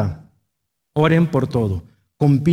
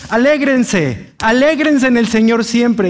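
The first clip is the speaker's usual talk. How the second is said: commanding; 6 semitones higher, 3 dB louder, slower than usual. Shown as a demonstration. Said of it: "una orden".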